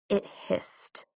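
breathless whisper; whispered hiss. Acted. Clary recalls the demon.

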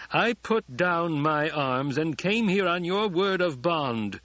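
shouting. A narrator's reading. Emperor shouts at Paul, outraged and loud. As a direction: hurl it as a betrayal. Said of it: "the Emperor shouted".

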